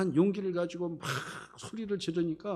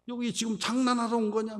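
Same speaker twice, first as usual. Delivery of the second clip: higher-pitched mock telling-off; retold scolding; 6 semitones higher, 3 dB louder than usual. Older brothers scold young David at the battlefield, scolding. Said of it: "동생을 막 뭐라고 하는".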